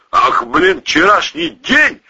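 slow, high-pitched menace; menacing. A narrator's reading. Boss advancing on his pal, menacingly. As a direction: throw it back as a threat. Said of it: "грозно уточнил Валерий".

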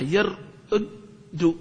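يرد said very slowly with one doubled دال; drawn-out example word. Shown as a demonstration. Teacher showing the merged form يرد to students, slowly. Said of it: "بتسكن الدال الأولى".

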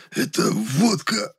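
choking on the burning drink, croaking; a wheezing, burnt-throat gasp; hoarse croak. A narrator's reading. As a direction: rasp it out slow and strained. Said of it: "прохрипел я".

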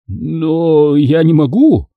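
almost in tears, helpless; nearly crying. Acted. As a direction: fat father close to tears. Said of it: "чуть не плакал толстяк".

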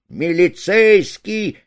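slow, loud shout to the police; cry for police. A narrator's reading. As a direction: stretch the cry out for help. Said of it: "Кричать, знаешь, за это".

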